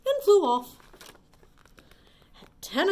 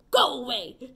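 ladybug voice; 2 semitones higher, 6 dB louder than usual. Acted. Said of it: "shouted the grouchy ladybug".

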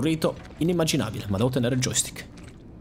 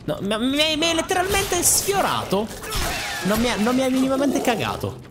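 outraged indignation; 9 semitones higher than usual. Real, not acted. Gamer ignored by an enemy, high indignant protest. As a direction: play it mock-offended.

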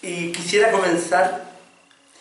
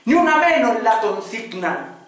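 impassioned poem recital; 2 semitones higher than usual. Acted. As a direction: declaim in rising waves, dropping at line endings.

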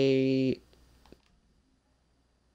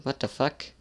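softer, muttered "What the fuck?"; quiet what the fuck; 5 dB quieter than usual. Real, not acted. Player muttering at a strange game screen, quietly. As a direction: say "What the fuck?" under the breath.

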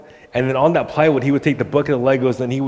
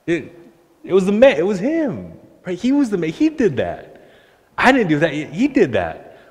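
emphatic preaching; 5 semitones higher than usual. Real, not acted.

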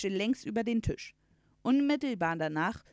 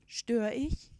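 higher, polite questioning voice; talking horse; 4 semitones higher, 3 dB louder than usual. A narrator's reading. Horse arriving at the uncle's door, politely asking. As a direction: ask politely, lifting into the question. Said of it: "Es zog den Strohhut und sagte".

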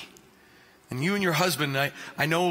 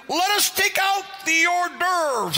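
mock French host; 10 semitones higher, slower than usual.

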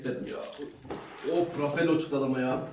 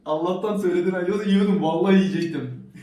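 laughing; 5 semitones higher, 6 dB louder than usual. Real, not acted. Laughs at nearly eating friend's sauce.

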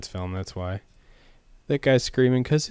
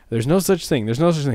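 Ted voice; 6 semitones higher, 6 dB louder than usual. Retold or imitated. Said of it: "And he's like".

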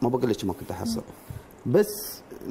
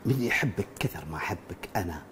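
Sheikh Hamdan reciting poetry; 8 semitones lower, 6 dB quieter than usual. Acted. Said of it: "مثل الشيخ حمدان بن محمد بن راشد".

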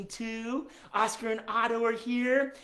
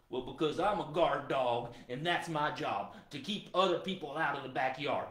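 lower-pitched dog character explaining himself; lightly voiced, dutiful guard dog, pitched down; hound dog guard; 4 semitones lower than usual. Guard dog explaining his job to his owner, lower hound voice.

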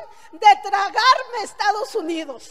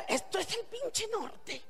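slow, much softer, almost to herself; bitter hushed aside; 13 dB quieter, slower than usual. Real, not acted. To the audience about the dirty hotel rooms, slow hushed bitterness. Disgusted realization about cleaning jobs.

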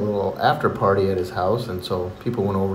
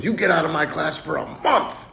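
higher-pitched mock scolding; exasperated teacher; 4 semitones higher than usual. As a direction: send the kid out, more worked up. Teacher's escalated punishment.

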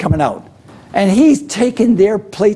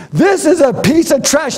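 higher, mock-outraged chef verdict; a light hammed-up Gordon Ramsay; mock Ramsay insult; 7 semitones higher than usual. Ramsay tearing into a contestant's dish, mock scorn.

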